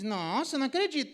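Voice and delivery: hammed-up shocked reply; mock indignant outburst. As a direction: overreact like an offended spouse. Spouse reacting indignantly.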